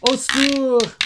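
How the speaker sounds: high, loud sing-song calling; call for help. Shown as a demonstration. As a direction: call out each word for the kids to repeat. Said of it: "Repeat after me".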